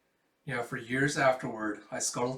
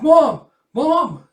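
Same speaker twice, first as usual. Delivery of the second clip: high, loud calls for mom; child screaming; 19 dB louder than usual. Pretend.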